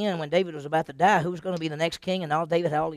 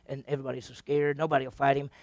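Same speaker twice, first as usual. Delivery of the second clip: ordinary talk, nothing marked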